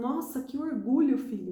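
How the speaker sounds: mock quavering voice, choked up, trembling, near tears. Retelling a father's reply to his son, mimicking a trembling, emotional voice. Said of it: "com a voz trêmula, tipo de emoção".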